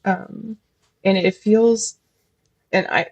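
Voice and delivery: nervous stammer, repeating words; stuttering. Real, not acted. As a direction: stumble over the start of phrases. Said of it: "I feel like I'm stuttering a little bit".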